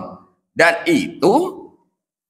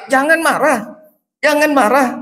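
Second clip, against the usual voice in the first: higher, pressing insistence; emphatic repeat; 10 semitones higher than usual. Retold or imitated. Repeating the prophet's advice.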